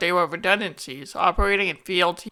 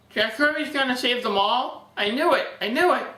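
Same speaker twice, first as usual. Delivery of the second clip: excited fanboy; 5 semitones higher than usual. Pretend. Mock fanboy quote.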